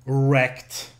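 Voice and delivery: loud one-word taunt; mock-triumphant shout; playful crowing. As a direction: call it out loudly like a knockout. Crowing after a comeback.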